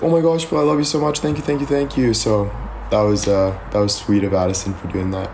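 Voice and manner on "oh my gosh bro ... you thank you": imitating excited sister. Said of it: "And she's like".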